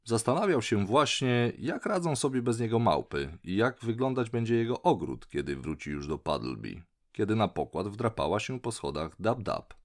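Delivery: ordinary delivery, nothing marked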